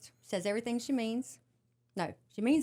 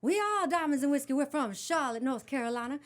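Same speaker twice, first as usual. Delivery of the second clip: loud, higher, bold frontwoman intro; stage announcement; 5 semitones higher, 4 dB louder than usual. Retold or imitated. Singer introducing her band to the crowd, loud and proud. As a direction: proclaim it to the crowd like a star. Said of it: "I came out on the stage".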